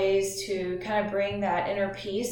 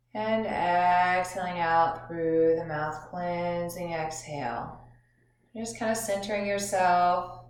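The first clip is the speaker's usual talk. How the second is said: measured instructions with long pauses; guided meditation. Acted. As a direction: guide listeners gently through breathing, drawing out phrase endings.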